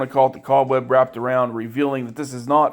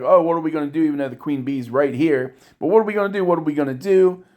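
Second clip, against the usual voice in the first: mock terrified; 2 semitones higher, faster than usual. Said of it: "they're terrified".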